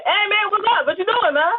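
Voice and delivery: African American voice. Pretend. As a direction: hail him in a put-on African American voice. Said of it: "The voice like".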